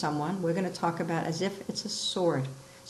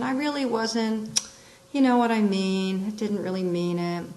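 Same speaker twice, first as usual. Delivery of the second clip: hesitation; 3 semitones higher than usual. Shown as a demonstration. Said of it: "or hesitation".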